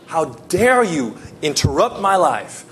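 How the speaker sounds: hammed-up protest rising to a high, anguished plea; acted indignant outcry. Broken believer demanding answers from God, acted indignant outcry. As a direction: accuse God, leaping high on the cries. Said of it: "some of you think".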